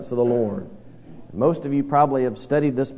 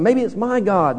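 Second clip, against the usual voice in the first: first sailor guessing; 5 semitones higher than usual. Retold or imitated. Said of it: "One, one guy's saying".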